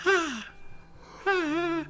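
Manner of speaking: very high, airy gasping voice; dying Linus gasping his name; breathless green child. Retold or imitated. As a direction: wheeze it out like you're out of air. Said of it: "Speaking as a green child".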